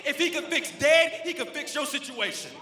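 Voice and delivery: emphatic preacher, punching key words; forceful preaching. Real, not acted. Pastor urging the congregation to trust God, forceful preaching. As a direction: preach it with rising conviction.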